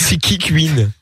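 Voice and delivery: "Queen" echoed as "Kuin"; mock-puzzled question, "Queen" pronounced "Kuin"; mocked Belgian pronunciation. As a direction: tease with "Queen" said with a French u glide. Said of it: "ça charrie sur mon accent belge?".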